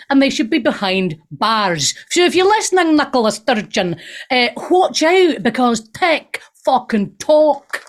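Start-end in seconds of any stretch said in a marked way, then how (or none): 2.1-7.8 mock Scottish accent. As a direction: warn her in a hammed-up Scottish accent. Mock address to Scottish party leader.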